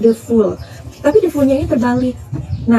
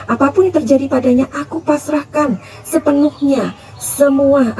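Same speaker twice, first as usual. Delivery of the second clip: retold prayer. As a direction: recite a solemn plea to God on a mother's behalf. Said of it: "Doanya tuh kayak gini". (menirukan doa seorang ibu)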